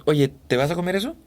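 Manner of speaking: Peruvian lilt, pitch lifted, ending rising; Peruvian accent. Shown as a demonstration. Voice actor demos Peruvian speech, rising Peruvian lilt. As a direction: demo a Peruvian speaker asking about the food. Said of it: "Y eso es muy peruano".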